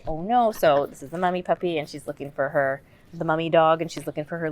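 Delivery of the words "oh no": animated demo. Shown as a demonstration. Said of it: "I would say on every page".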